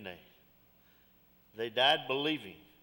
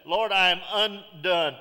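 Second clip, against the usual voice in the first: Isaiah's confession; 3 dB louder than usual. Retold or imitated. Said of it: "and he said".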